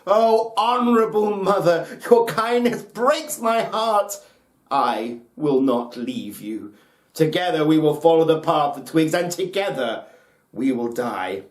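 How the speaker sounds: a grieving son crying out to his mother; high, loud, heartbroken son's vow; cried out. A narrator's reading. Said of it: "he cried out".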